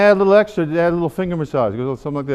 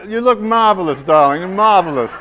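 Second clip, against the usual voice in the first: flamboyant darling; 6 dB louder than usual. Acted. Clown nose, addressing audience playfully.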